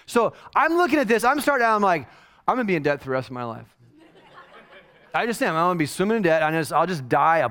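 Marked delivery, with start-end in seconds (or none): 2.5-3.7 rushed mock panic. Father panicking about costs.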